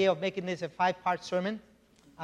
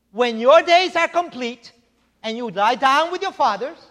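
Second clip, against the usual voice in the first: scripture reading; 3 semitones higher, 8 dB louder than usual. Acted. Reads scripture aloud in sermon.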